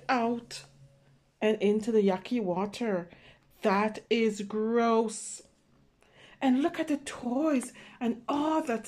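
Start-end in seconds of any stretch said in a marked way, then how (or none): 3.6-5.4 slow drawn-out disgust. Acted. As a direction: linger on gross, grossed out. Disgust at toilet water.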